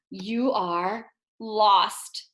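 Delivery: gasp, then a slow, hushed dramatic reveal. Acted. Teacher to students imagining lost at mall, slow dramatic gasp. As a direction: frighten the kids a little with the news.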